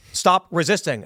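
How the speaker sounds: lightly voiced robot enforcer; Terminator. Robot cop confronts a citizen, mechanical command. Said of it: "The Terminator's gonna walk up".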